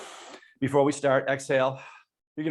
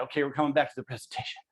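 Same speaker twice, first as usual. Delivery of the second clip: out of breath; 2 semitones lower, 5 dB quieter, much faster than usual. Real, not acted. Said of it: "Man, I'm out of breath".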